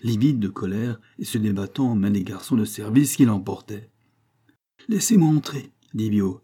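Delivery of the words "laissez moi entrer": high, loud demand; insistent demand. A narrator's reading. Farmer at the college gate demands entry, calling out loudly. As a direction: call out firmly to be let through.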